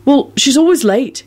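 high, mildly agreeable reply; easygoing excuse for a friend. A narrator's reading. Neville excusing late Luna, agreeable. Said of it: "he replied agreeably".

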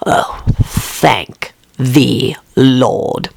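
slow drawn-out relief; maid voice. Acted. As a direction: sigh it out slowly. Voices Lucretia.

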